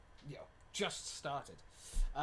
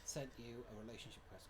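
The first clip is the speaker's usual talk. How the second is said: whispering; 4 semitones lower, 9 dB quieter than usual. Real, not acted. Whispering while typing.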